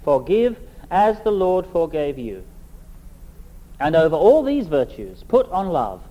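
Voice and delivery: measured, solemn Bible reading with long pauses; scripture reading. Acted. Preacher reading Colossians to the congregation, solemn reading voice. Reads scripture passage aloud.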